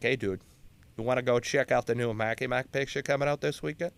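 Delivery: imitated blue-collar Bostonian; casual Boston worker accent. Worker asks buddy to the movies, in a Boston accent. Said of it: "because the accent's out".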